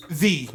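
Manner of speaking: pompous "thee" for "the"; "the" rhyming with "see", mock-pretentious. Shown as a demonstration. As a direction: say "the" with a long ee. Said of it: "You don't gotta say".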